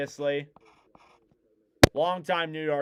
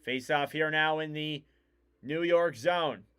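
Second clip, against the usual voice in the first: lively, measured hockey commentary; live play-by-play; 2 semitones higher than usual. Real, not acted. Commentator calls Cizikas versus Nelson face-off, live play-by-play. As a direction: call the face-off and the rush as they happen.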